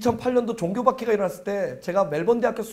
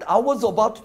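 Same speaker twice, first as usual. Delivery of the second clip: mock dramatic surrender; 4 semitones higher, 6 dB louder, much slower than usual. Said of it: "딱 이렇게 하는데".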